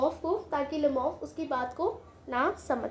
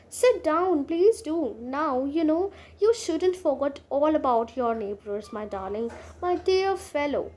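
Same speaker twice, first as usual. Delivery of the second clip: slow, deliberate reading of a play line; unhurried classroom reading of Chekhov; much slower than usual. Acted. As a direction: read each word out slowly for the class. Reads play aloud slowly.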